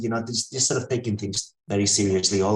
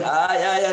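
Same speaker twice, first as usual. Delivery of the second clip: higher, mock cries of pain; imitated pained wailing; 8 semitones higher, 3 dB louder than usual. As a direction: act out someone moaning on and on. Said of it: "he keeps going".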